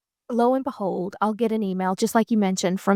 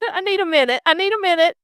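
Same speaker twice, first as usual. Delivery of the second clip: laughing stall; 8 semitones higher, faster than usual. Retold or imitated. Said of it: "and I said".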